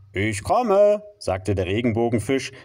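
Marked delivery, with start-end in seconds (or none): 0.1-1.0 high, happy call back; joyful reply. Acted. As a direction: answer brightly and loud.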